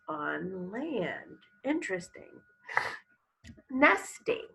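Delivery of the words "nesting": high, loud, clear; announced word. Shown as a demonstration. Teacher calling a vocabulary word to the class, loud. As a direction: say it out for the class to echo. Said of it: "Everybody, what's the word?".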